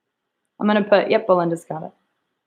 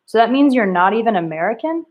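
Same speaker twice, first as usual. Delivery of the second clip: questioning tone; 2 semitones higher than usual. Shown as a demonstration. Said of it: "How are you supposed to be reading that".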